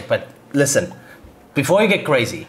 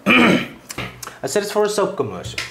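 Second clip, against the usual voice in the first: slow, deliberate repeat of the news; 3 semitones higher than usual. Acted. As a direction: spell it out slowly the second time. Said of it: "A what?".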